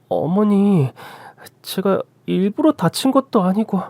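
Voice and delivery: a touch of hurt; hurt protest. Acted. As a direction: defend yourself meekly to a mother-in-law. Daughter-in-law defends herself.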